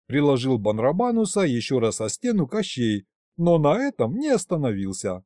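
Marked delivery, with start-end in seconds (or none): none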